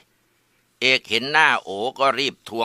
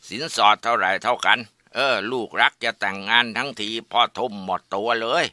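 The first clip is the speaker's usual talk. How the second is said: scolding father; 2 semitones higher than usual. Acted. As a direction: bellow at the useless son, then brag. Father scolds, praises other son.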